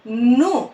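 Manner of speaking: "ను" with a long, held న sound; pressed consonant. Shown as a demonstration. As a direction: press hard on the న of "ను". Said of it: "అని నొక్కి పలకాలి".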